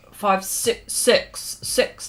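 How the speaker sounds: broad Kiwi counting, "six" like "sex"; New Zealand accent. Shown as a demonstration. Streamer mimicking how broad Kiwis say numbers, New Zealand accent. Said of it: "that's how they say it".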